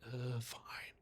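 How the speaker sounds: soft, grudging fine; softly caving in; reluctant give-in. Retold or imitated. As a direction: give in quietly, unwillingly. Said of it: "and is like".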